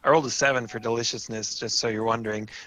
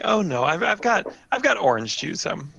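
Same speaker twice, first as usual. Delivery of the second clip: lightly voiced hostess, pitched up; hostess character; 6 semitones higher than usual. Game master as hostess turning down tea, lightly voiced. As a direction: politely decline in a higher hostess voice.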